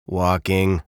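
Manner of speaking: curt, mildly grumpy answer; a touch of grumpiness, falling tone; lightly voiced sullen bird.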